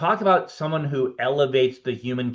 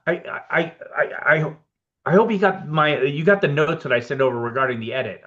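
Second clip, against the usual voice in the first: lightly voiced Warren Beatty, higher and halting; Warren Beatty impression; 3 semitones higher than usual. Warren Beatty calls the editor about the edit, higher halting voice. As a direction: stammer it out higher as the famous director. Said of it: "He's like".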